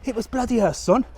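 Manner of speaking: laughing through the punchline; giggling it out. Real, not acted.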